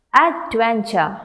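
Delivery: slow "Adventure" as ad, ven, ture; broken into syllables. Shown as a demonstration. Teacher having learners pronounce along, "Adventure" slow and split. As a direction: sound out each beat of "Adventure". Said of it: "break them into syllables".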